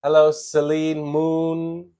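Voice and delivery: ordinary delivery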